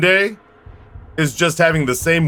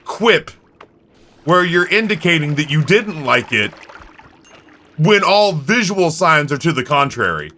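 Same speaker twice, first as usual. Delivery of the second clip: over-polite waiter. Retold or imitated. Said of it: "did you have to go like".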